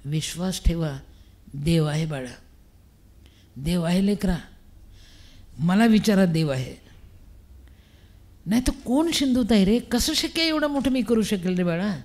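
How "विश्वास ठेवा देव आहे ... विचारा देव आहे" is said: low, measured voice of reassurance; lightly voiced consoling spirit; mysterious voice. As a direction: speak as an unseen voice, spaced out and low. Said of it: "मला आवाज आला".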